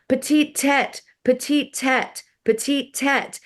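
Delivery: high-pitched, hammed-up American French accent; mock French shopkeeper talk in a bad American French accent; horrible French accent. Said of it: "my horrible French accent".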